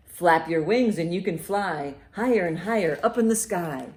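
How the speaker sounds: loud, lively picture-book read; reading to children. Acted. Librarian reads a bird book aloud to children, loud and lively. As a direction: read it out big for a room of kids.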